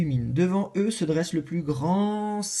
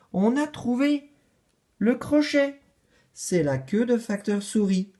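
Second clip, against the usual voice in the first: shouting in chorus; 6 semitones higher than usual. Acted. Les animaux trouvent le crochet, criant en chœur. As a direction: cry out the discovery together. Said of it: "tous crient en chœur".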